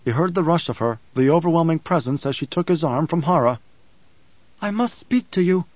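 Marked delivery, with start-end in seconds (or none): 4.6-5.6 hissed. A narrator's reading. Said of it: "Alia hissed".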